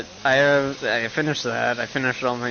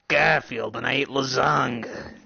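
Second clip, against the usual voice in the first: lightly voiced cat in a Danny DeVito style; Garfield. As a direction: put on a loose DeVito-like cat voice. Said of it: "Fucking Danny DeVito".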